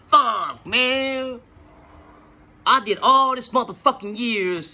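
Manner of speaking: a real crack of tears on man; choking up. Real, not acted. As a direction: voice catching into a cry on the last word. Emotional memory of nearly killing someone.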